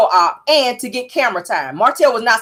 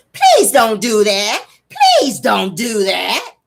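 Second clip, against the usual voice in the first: pleading; much slower than usual. Retold or imitated. Melody pleading with Martell.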